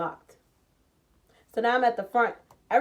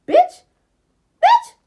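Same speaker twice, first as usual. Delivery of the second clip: shrieked, much higher and louder; outraged scream; 14 dB louder than usual. Retold or imitated. Reliving the moment she learns she must stay, shrieking. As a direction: scream it in disbelief.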